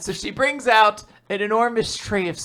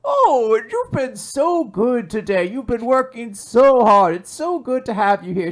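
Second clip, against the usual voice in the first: gushing praise; 6 semitones higher than usual. Acted. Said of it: "she's like".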